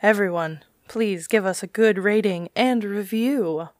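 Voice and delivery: slow, sultry sexy voice; slow it right down and seduce them. Pretend. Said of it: "use your sexy voice to convince all the people".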